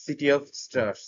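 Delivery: very slow, each word laid out; slow demo. Shown as a demonstration. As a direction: spell the phrase out slowly for learners. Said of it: "preposition গুলো খুব দ্রুত উচ্চারিত হয়".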